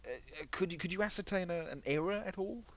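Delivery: high, hesitant questioning voice; puzzled officer. Acted. Officer quizzing squad about the city, high puzzled voice. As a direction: probe haltingly, pitch climbing through the question.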